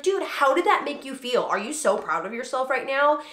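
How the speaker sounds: inviting question. Shown as a demonstration. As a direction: draw his pride out of him. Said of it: "I try as often as I can to be like".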